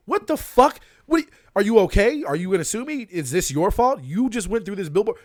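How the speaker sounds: high, loud, disbelieving yell; mock outraged shout. Driver jumping out at the cyclist, shouting in outrage. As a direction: lay into him like a furious driver.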